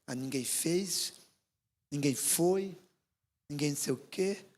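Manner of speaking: a mild mock of someone complaining nobody helped; whiny complaining. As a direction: sulk through the excuses. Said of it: "tem gente que é assim".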